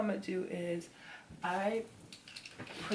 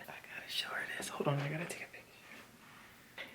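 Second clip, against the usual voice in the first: whispered, hushed and softer; late-night whisper; 2 semitones lower, 8 dB quieter than usual. Real, not acted. Vlogger late at night whispering to the camera. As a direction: keep it down so nobody wakes. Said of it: "It's ten fifty-two at night".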